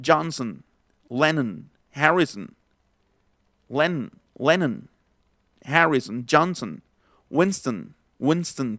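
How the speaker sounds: 'Johnson, Lennon, Harrison, Winston' with the last o swallowed; schwa endings. Shown as a demonstration. Teacher listing surnames, 'Lennon' and 'Harrison' with no final o. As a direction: end 'Johnson' and 'Winston' on a bare n. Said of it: "ya no se va a pronunciar la, la O".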